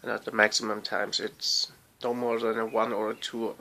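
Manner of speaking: whistling s from a swollen tongue; thick lisping speech. Real, not acted. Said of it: "my lisp is somewhat more prominent today".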